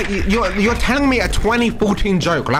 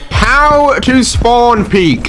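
loud, slow and drawn out; slow showoff boast; 8 semitones higher, 8 dB louder, much slower than usual. Real, not acted. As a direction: boast it to chat.

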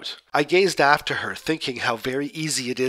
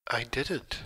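softer, hushed little denial; whispered; 9 dB quieter than usual. Acted. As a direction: barely breathe the words out. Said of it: "Yulia Vasilievna whispered".

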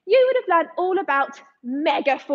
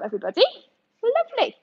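whisper; 6 semitones higher, much faster than usual. Real, not acted. Quiet praise to kids.

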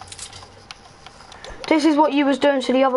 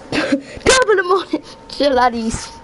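mock Irish accent; 3 semitones higher than usual. Shown as a demonstration. Player proves he does any accent, mock Irish accent. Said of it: "give me any accent and I can do it".

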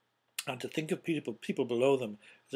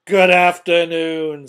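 very loud, slow, higher farewell; insistent dismissal; 4 semitones higher, 17 dB louder, slower than usual. A narrator's reading. Scrooge cuts off his nephew, loud insistent dismissal. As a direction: stretch it out to drown him out.

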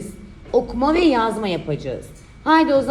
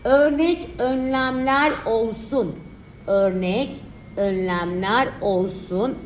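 dictating; slower than usual. Shown as a demonstration. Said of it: "Şimdi örnek yorumumuz".

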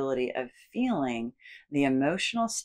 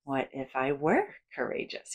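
big, bouncy cartoon-style question; exaggerated cartoon voice asking what if; big cartoonish voice. Shown as a demonstration. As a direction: ham it up like a cartoon. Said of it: "in a really big, almost cartoonish voice".

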